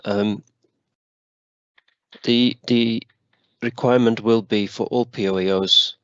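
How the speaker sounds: breathless, gasping between words; short of breath. Real, not acted. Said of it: "I'm slightly short of breath".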